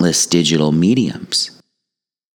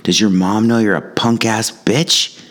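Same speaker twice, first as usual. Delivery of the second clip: mock yell; 6 semitones higher than usual. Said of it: "I screamed at the kid".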